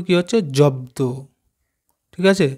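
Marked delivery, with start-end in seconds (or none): 0.4-1.0 জব্দ said as one word, both ব and দ sounded; joined pronunciation demo. Shown as a demonstration. Teacher to pupils, showing how জব্দ is blended. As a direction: blend জব্দ clearly for the class. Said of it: "আমরা যদি একসাথে উচ্চারণ করি".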